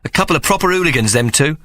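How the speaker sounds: mother Mary. Acted.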